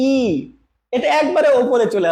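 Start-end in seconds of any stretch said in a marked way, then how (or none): 0.1-0.2 drawn-out vowel ই said clearly; teacher demonstrating ই; vowel demo. Shown as a demonstration. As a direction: model the sound ই for students. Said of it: "আর যখন আমরা ই বলছি".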